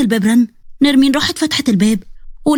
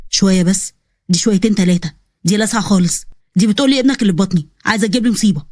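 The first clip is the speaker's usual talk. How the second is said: lower, exasperated man voice; lightly lowered grumbling young man; exasperated officer; 4 semitones lower than usual. Acted. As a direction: scoff at the girl's craziness, lower. Nabil complains about Zeina.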